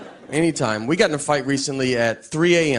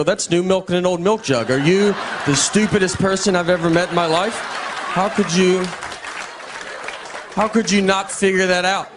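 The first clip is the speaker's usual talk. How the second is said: mock condescending; 3 semitones higher than usual. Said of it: "That's basically what I told her".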